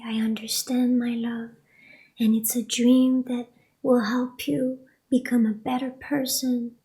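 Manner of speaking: calm her down in a near whisper; hushed comfort. Retold or imitated. Mother comforting crying daughter.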